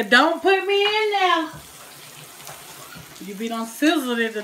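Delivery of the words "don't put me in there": high, loud, drawn-out warning; talking smoke. Acted. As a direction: voice the smoke pleading, slow and raised. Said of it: "The smoke tell you".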